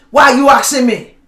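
sharp, defensive snap; snappy retort. Retold or imitated. Husband snapping back at wife over toothpaste. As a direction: bite back at the question. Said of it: "Is that a soft answer? No".

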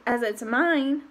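plain reading voice

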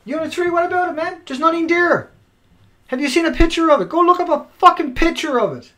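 high, loud angry rant; angry yelling. Real, not acted. Ranting at viewers about Unit three, angry shouting. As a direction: yell it out in frustration. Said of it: "I'm not yelling at you".

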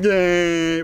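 long, drawn-out bleating cry; imitated goat yell. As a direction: mimic a distant yell that turns out to be a goat. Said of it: "I thought someone was yelling".

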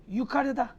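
yukarıda with a falling tune as the correct form. Shown as a demonstration. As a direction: finish yukarıda firmly. (yukarıda doğru okunuşu, düşen ezgi)

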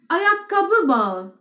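Ayakkabı bağı drawn out syllable by syllable; slow, clear pronunciation drill; slow teaching read. Shown as a demonstration. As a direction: say Ayakkabı bağı very slowly for learners to copy. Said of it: "ورباط الحذاء يدعى".

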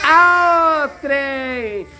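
drawled Minas Gerais "Ao trem!", the vowels stretched out; a dad demonstrating the Minas Gerais way of saying "Ao trem!"; mineiro accent. Shown as a demonstration. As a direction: answer the question with a Minas Gerais greeting. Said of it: "Como é que mineiro fala?".

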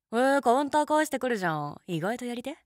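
loud, high playful exclamation; delighted surprise. Real, not acted. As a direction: tease him, caught off guard. Impressed by listener's comeback.

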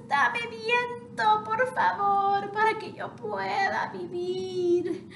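very high, fast breathless plea; pleading fire voice. Acted. Smothered fire begs the half chick for wind, very high. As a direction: gasp for air as a dying flame.

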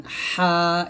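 "হা" squeezed from the middle of the throat, thin and drawn out; pressed throat H. Shown as a demonstration. Teacher showing Arabic ha, pressed mid-throat "হা". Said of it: "হলকের মাঝখান থেকে চাপ দিয়ে বলবেন".

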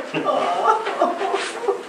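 soft, high whimpering sobs; quiet high sobbing. Acted. Man thinking of his lost love, sobbing. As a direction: dissolve softly into tears. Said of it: "he cried for three days".

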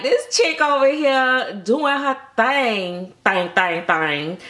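a light, sassy sing-song praise; sassy admiration. Retold or imitated. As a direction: hype her up with attitude. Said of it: "I'm like".

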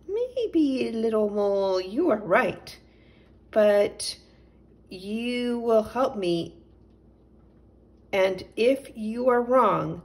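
cat agreeing with a mock threat; sly cat. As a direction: weigh it up, then add a sly warning. Katundra considers the plan.

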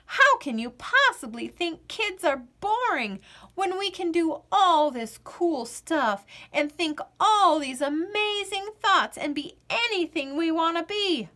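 put-on high, frustrated little girl; exasperated kid. Girl arguing with the stubborn potato, exasperated. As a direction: plead in disbelief.

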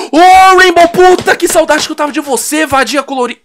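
high, loud delighted cry, easing down; overjoyed hello; excited greeting. Real, not acted. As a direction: greet a long-missed favourite.

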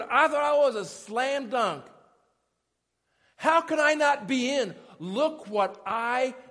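indignant disbelief. Acted. Would-be shoo-in told he is not in, indignant disbelief. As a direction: protest as if wrongly shut out. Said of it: "they're like this".

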